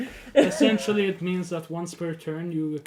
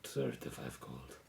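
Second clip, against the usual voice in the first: lizard folk voice; 12 dB quieter, slower than usual. Acted. GM voicing lizard merchant.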